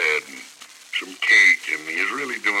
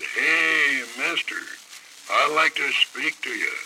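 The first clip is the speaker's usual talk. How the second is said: retold yell; 7 semitones higher, slower than usual. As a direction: shout it out like a startled wild man. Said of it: "he let the awfulest yell out of him".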